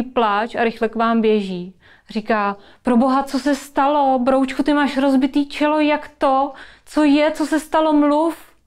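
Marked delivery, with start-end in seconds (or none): 2.8-8.6 higher, urgent questioning; panicked mum demanding an answer, building in pitch; alarmed mother. Acted. Alarmed mother finds hurt child. (vyděšená, naléhavá maminka)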